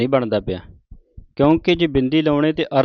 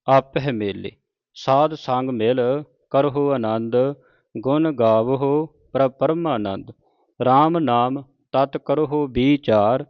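slow, measured Gurbani reading; measured devotional recitation; scripture recitation; slower than usual. Acted. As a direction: recite each phrase deliberately, drawing out the vowels.

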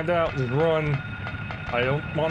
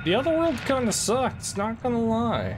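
shaken; 9 semitones higher than usual. Real, not acted. Still shaken after the attack.

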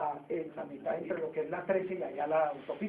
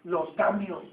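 rising emphatic build-up; 6 dB louder than usual. Real, not acted. Teacher building up to key point.

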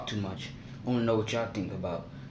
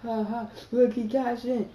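mock laugh; 11 semitones higher than usual. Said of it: "I don't be laughing".

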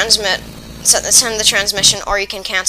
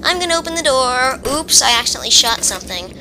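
higher, silly voice of himself; clumsy self mimic; 5 semitones higher than usual. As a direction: play your own oblivious blunder. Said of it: "I do the kind of thing where".

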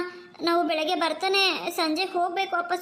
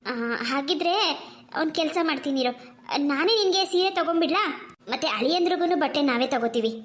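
mother. Acted. Mother calming her two daughters, gently. Mother figure voiced lower.

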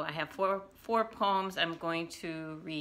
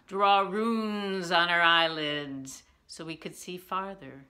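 poetry reading; 3 dB louder than usual. Acted. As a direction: recite it with lifted openings and dropped endings. Reads own poem aloud.

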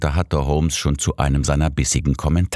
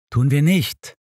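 stubborn; 12 semitones higher than usual. A narrator's reading. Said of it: "erwiderte ich eigensinnig".

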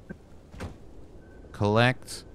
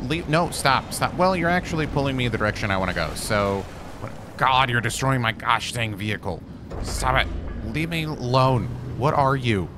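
louder frustrated shouts; yelling at creature; 2 semitones higher, 3 dB louder than usual. Real, not acted. Gamer shouting at a creature wrecking his car. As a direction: shoo it away.

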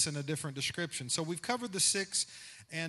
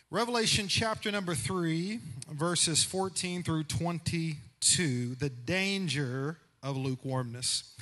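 rising impassioned oratory. Acted. Preacher announces text.

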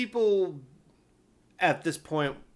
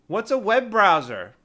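higher, louder clueless customer; confused caller; 5 semitones higher, 8 dB louder than usual. Retold or imitated. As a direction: play the baffled caller, lightly. Caller voiced in story.

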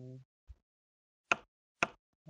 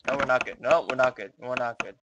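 exclaiming; 8 dB louder than usual. Real, not acted. Realizes position is lost.

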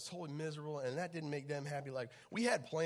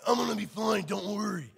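laughing reassurance; 7 semitones higher, 11 dB louder than usual. Retold or imitated. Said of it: "And I'm like".

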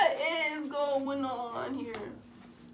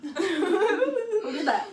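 slow laughing question; 5 semitones higher, much slower than usual. Real, not acted.

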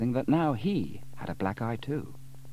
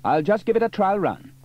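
eager Sam; 11 semitones higher, 9 dB louder than usual. A narrator's reading. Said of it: "said Sam".

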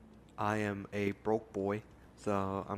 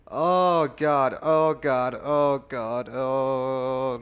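panicked; 3 semitones higher, 10 dB louder, much slower than usual. Real, not acted. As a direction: cry out in disgust and panic. Trypophobic panic at holes.

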